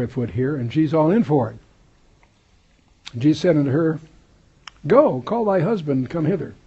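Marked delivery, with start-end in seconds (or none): 3.2-6.5 raised, emphatic reading of scripture. Acted. Preacher reads the Bible aloud to his class, raised and emphatic. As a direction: proclaim the verse to the congregation.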